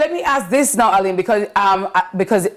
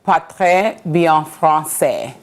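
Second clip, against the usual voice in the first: slow learner French; slower than usual. Shown as a demonstration. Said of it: "I don't speak French well".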